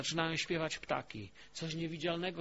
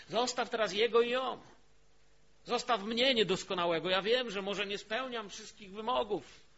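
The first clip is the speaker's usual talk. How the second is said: raised, louder pulpit exhortation; forceful preaching; 5 semitones higher, 5 dB louder than usual. Real, not acted. Preacher tells doubters to stop judging others, forceful preaching. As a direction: urge the listeners on in a higher, insistent voice.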